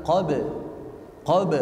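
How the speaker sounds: "qab" with immediate short release of the b; jolted bounce. Shown as a demonstration. Teacher demonstrating to pupil, "Qab" with a jolt. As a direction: snap straight off the b in "Qab". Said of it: "langsung mantul dihentak".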